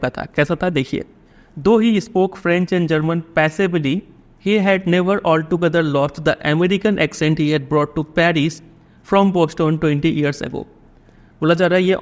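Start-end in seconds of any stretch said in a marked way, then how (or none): 1.6-10.6 drawn-out, deliberate reading of the text; slow passage reading. A narrator's reading. Teacher reading the English passage to the class, very slow. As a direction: read it slowly so students can follow. Reads the story passage aloud.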